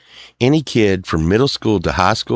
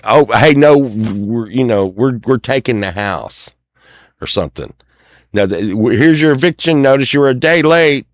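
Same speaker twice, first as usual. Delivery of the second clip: mock lender threat; 4 semitones higher than usual. Voicing the lender threatening eviction.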